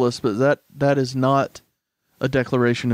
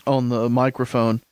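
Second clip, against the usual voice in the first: talking while crunching snacks; eating crunchy food into the mic; crunching chips. Real, not acted. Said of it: "I'm sorry if I'm crunching on the".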